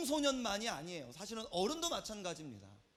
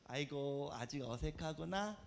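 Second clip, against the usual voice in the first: low, soft, slow retold quote; softly voiced fond remark; gentle amused teasing; 9 semitones lower, 5 dB quieter, slower than usual. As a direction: say it slowly with a mild, indulgent amusement. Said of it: "웃으면서".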